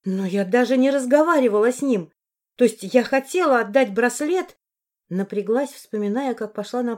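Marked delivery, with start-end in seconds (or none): 0.0-4.6 louder, higher, flustered; flustered protest. Acted. Heroine protests to Morris, louder. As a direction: rush to defend herself.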